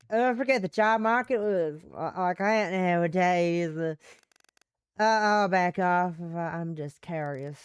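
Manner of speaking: a light Southern female voice; Southern woman. Acted. Apologizing for prying about work, in a light Southern accent. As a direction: back off politely with a Southern lilt. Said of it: "one female Western Southern voice".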